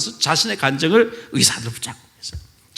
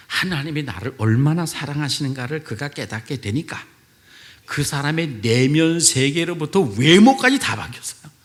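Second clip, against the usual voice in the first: ordinary delivery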